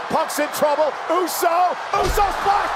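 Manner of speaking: building excited play-by-play call; wrestling commentator. Real, not acted. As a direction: call the dive as it happens. Live wrestling call, rising excitement.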